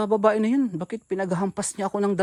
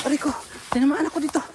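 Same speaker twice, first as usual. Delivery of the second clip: pained shout; 8 semitones higher, faster than usual. Real, not acted. Cries out after being hit.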